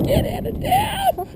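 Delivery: high, slow disbelieving shout; laughing high shout at the size of the fish; amazed laughing shout. Real, not acted.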